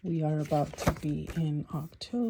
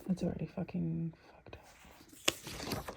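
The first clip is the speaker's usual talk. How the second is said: frustrated whisper under breath; hushed annoyed aside; 8 dB quieter, slower than usual. Real, not acted. Muttering about ruined planner.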